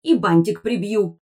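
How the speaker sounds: high-pitched creaky gadget voice; high, creaky scolding voice; creaky talking artifact. A narrator's reading. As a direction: squeak out a threat like a little magical device. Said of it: "скрипел из кармана речевой артефакт".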